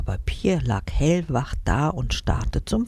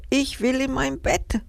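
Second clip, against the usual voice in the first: put-on higher, whiny little-girl plea; tearful plea; 10 semitones higher than usual. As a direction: plead for your bed, close to tears. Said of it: "schluchzte sie". (weinerlich, mit hoher Stimme)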